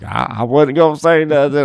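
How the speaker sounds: high, slow, drawn-out whine; mock panicked protest. Partner promising roper he'd say nothing, mock whine.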